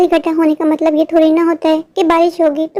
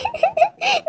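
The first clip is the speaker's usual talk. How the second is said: sob; 12 semitones higher, 8 dB quieter than usual. Acted. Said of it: "Pinky please तुम रोना बंद करो".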